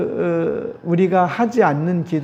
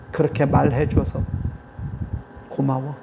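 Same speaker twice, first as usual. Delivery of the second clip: softer, gentle thank-you trailing off; tender thanks; 3 semitones lower, 4 dB quieter than usual. Shown as a demonstration. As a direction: thank them gently and sincerely. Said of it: "이런 거".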